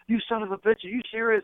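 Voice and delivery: high-pitched imitation of tickled disbelief; amused disbelief. Wrestler reacting to friend's badge trick, imitated amused disbelief. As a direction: retell it as if tickled and incredulous. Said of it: "he starts laughing".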